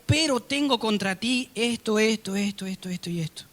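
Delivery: God's words trailing off into a whisper; soft, fading divine rebuke. Acted. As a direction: let the list die away to breath. God voiced listing faults.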